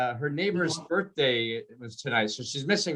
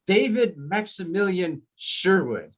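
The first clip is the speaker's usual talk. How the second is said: entitled full name; 2 semitones higher, slower than usual. Retold or imitated. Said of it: "you can just feel the entitlement".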